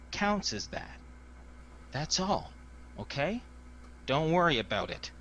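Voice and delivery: firm but cracking with a touch of panic; guard insisting, a touch panicked; firm, a little panicked. Acted. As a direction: insist it's fine while the nerves show. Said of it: "a little firm, a little panicked".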